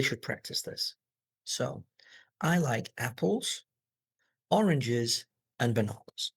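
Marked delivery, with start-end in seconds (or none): 2.4-6.3 up on "apples" and "oranges", down on "bananas"; list intonation. Shown as a demonstration. Teacher showing how to read lists, rise, rise, fall. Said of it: "go up on each of the first two".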